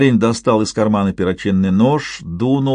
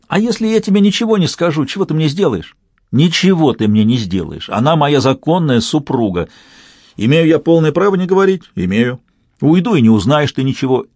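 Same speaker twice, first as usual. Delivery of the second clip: higher, mocking taunt; spiteful taunting; 6 semitones higher, 3 dB louder than usual. A narrator's reading. Matroshilov spitefully taunting the father, higher. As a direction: taunt him by withholding news.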